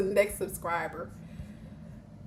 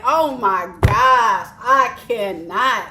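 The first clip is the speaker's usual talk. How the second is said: laughing in disbelief; 6 dB louder, slower than usual. Real, not acted. Overcome with laughter.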